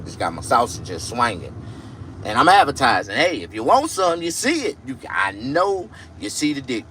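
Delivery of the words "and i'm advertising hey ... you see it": hyping himself up. Acted. Hyped-up pitch to viewers.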